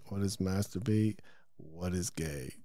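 low, soft mumble to oneself; writing while talking. Real, not acted. Podcaster jots down kids' tough questions, low absent murmur. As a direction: read it back quietly while writing. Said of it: "I have to fucking write".

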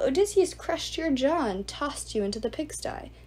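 lightly voiced sneering ghoul lord; a hint of a cruel suitor; Antinous, mocking. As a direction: taunt him like a smug host.

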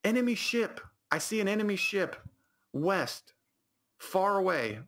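high-pitched lookout call; Corey. Retold or imitated. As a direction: imitate a gamer calling out a sighting. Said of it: "Corey would go".

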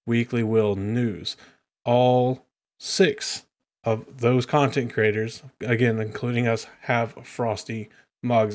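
steady, evenly pitched sponsor read; podcast ad read. Real, not acted. Host plugging a merch shop, measured ad read. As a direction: present it clearly to listeners.

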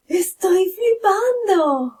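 high-pitched thrilled squeal; overwhelmed amazement. Shown as a demonstration. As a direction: squeal it, acting out sheer disbelief. Acts amazement at winning lottery.

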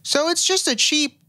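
high, drawn-out salesy voice; hammed-up sales pitch, slow on the price; mock salesman pitch. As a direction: sell it like a smooth pitchman. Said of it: "And then at the end he goes".

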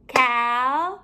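CALENDAR in three long, separate syllables; a beat on each syllable of CALENDAR; clapped-out syllables. Shown as a demonstration. Teacher clapping out syllables for pupils, one beat at a time. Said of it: "We're going to clap out the syllables".

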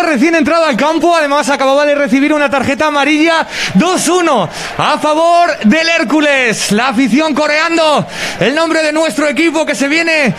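high, elated play-by-play; excited commentary. Real, not acted. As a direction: celebrate the goal as you call it. Celebrating surprise goal.

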